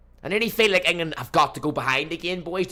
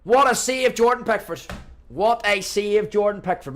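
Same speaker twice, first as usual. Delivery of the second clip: high, loud burst of excitement cracking the voice; real cracked-voice commentator outburst; excited voice crack; 7 semitones higher, 5 dB louder, slower than usual. Real, not acted. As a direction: shout the save so keenly your voice breaks. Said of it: "My voice had a voice crack there".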